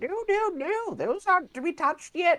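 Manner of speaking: put-on very high, loud, elderly dwarven woman voice. Narrating a scene, voicing an old dwarven woman who runs up with a broom; old dwarven woman voice. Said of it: "an old dwarven woman comes running up with a broom".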